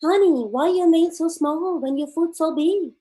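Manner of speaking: chirpy nail salon lady; a sweet-talking manicurist asking. Retold or imitated. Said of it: "and the lady says".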